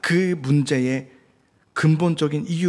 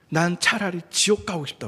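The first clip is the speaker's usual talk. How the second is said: mild mock yell; 5 semitones higher than usual. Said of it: "이렇게 소리를 지르면서".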